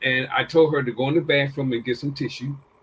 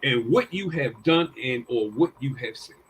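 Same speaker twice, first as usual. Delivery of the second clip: retold scolding, higher and louder; a father telling his girl he's disappointed; lightly voiced stern dad; stern father lecture; 5 semitones higher, 3 dB louder than usual.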